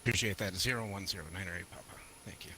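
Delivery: radio readback, filtered and distant; pilot over the radio. Real, not acted. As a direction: read it back like on the radio. Pilot reading back to tower.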